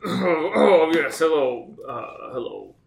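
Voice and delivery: lightly voiced stuffy professor; a hint of an old academic. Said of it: "conjure up my professor voice".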